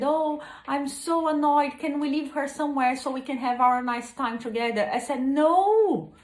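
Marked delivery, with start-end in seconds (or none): 0.0-4.9 higher, whiny imitation of an annoyed eight-year-old; annoyed daughter. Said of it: "she was very frustrated". 5.2-6.1 a sharp, higher, louder no; firm no. Retold or imitated. Mother refusing daughter firmly.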